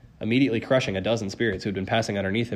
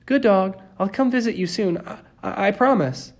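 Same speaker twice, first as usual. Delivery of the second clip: sad goodbye; 10 semitones higher, 3 dB louder than usual. A narrator's reading. Sad, halting goodbye to Cerberus.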